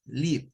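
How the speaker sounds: "live" said liv, with a short vowel; short i sound. Shown as a demonstration. Teacher naming the verb vivir, "live" as short-i liv. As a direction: pronounce "live" to rhyme with give. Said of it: "un sonido corto".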